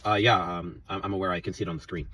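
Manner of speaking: imitating his own monotone reply to a rude coworker. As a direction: answer her dead even, no sass. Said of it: "told in a monotone voice".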